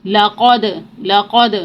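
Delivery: لقد with the د bouncing back; لقد ending in a bouncing d; qalqala on dal. Shown as a demonstration. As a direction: let the د of لقد echo. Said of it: "اس کی آواز پلٹ کر واپس آئے گی".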